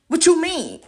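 high, loud indignant challenge; indignant rant. Real, not acted. Ranting at critics online, high indignant demand. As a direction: fling the question at them.

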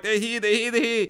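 high-pitched rapid repeated alert; urgent alert. Acted. Man upstairs signals that they're here, urgent alert. Acting out signalling hidden intruders.

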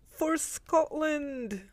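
a high, drawn-out mock rallying cry for Scotland; half-joking heroic call, stretched out slowly; mock battle cry. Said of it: "I can't do a Scottish accent".

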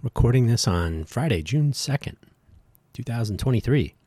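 bright announcer radio voice. Shown as a demonstration. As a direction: open like a radio host. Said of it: "Trying out my radio voice".

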